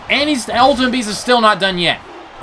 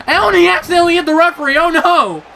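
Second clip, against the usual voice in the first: excited outburst; 12 semitones higher, 5 dB louder than usual. Real, not acted. Ref accidentally hit mid-match.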